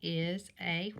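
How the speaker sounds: slow, deliberate read-aloud of the sentence; teacher slowly reading the sentence frame to young kids. Shown as a demonstration. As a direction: read it out slowly for the class, word by word. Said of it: "it says".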